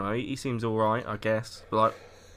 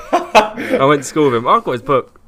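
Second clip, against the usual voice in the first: mock one-upping; 9 dB louder, slower than usual. Mocking friend's one-upmanship.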